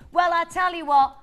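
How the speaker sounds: slow, drawn-out go at Scottish; amateur Scottish accent; attempted Scottish accent. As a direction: have a wobbly go at a Scottish accent. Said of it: "What accent are you going for then".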